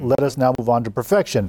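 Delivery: ordinary talk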